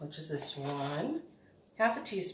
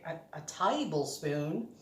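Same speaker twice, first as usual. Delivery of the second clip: a light southern drawl on tablespoon; slipping into a mock southern accent; put-on southern accent; slower than usual. Cooking vlogger hamming up a southern accent. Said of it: "I gotta go into my other accents here".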